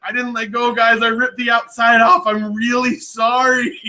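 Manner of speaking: high, protesting and apologetic; indignant protest. Retold or imitated. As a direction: insist you didn't let go. Insisting to hosts he didn't let go.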